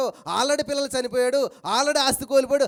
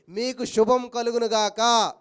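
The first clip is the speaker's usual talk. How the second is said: 1 solemn blessing; 4 dB louder, much slower than usual. Acted. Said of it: "ప్రభువారు ప్రత్యక్షమై".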